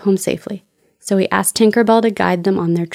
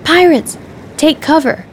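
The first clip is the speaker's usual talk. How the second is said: high, loud warning shout; alarmed yell; 9 semitones higher, 3 dB louder than usual. A narrator's reading. Peter warning the children of pirates, loud alarmed yell. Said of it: "Suddenly, Peter yelled".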